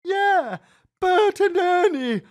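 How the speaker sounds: put-on high, insistent boy voice; lightly voiced eager kid; boy agreeing. A narrator's reading. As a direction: son backing up his dad.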